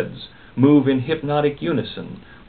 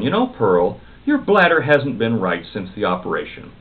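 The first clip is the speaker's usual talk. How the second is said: snapping; 5 semitones higher than usual. Acted. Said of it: "snapped Pearl".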